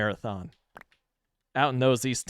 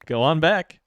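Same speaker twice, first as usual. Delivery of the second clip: welcoming barista; 3 semitones higher than usual. Retold or imitated. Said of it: "Just like".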